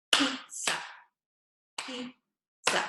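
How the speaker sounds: pizza said clearly, sounded out; modelled word. Shown as a demonstration. Speech teacher modelling pizza for pupils. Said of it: "I love pizza".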